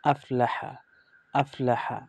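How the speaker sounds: আফলাহা পুরোটা একসাথে; whole word joined. Shown as a demonstration. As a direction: say it all in one go. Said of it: "আর সম্পূর্ণ". (আফলাহা সম্পূর্ণ মিলিয়ে পড়া)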